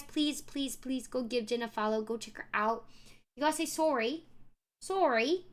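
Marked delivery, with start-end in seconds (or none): 3.7-4.2 Canadian "sorry" with a round "sore" vowel; put-on Canadian "sorry"; Canadian accent. Shown as a demonstration. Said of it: "Do the Canadian accent for Jen". 4.8-5.4 Canadian "Sorry" said as SORE-ee; put-on Canadian "Sorry"; Canadian accent. Shown as a demonstration. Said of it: "Do the Canadian accent for Jen".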